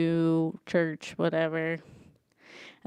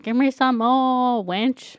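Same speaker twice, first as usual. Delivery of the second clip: slow, louder demanding old man, lightly voiced; greedy old lord; 5 semitones higher, 5 dB louder, slower than usual. Walder Frey demanding pie from servant, mild mock gruffness. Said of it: "he's like".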